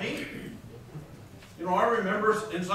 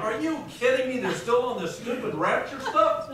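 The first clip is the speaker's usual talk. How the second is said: higher, laughing disbelief; mock disbelief; 5 semitones higher than usual. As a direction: scoff at it half-laughing. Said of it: "And I'm like".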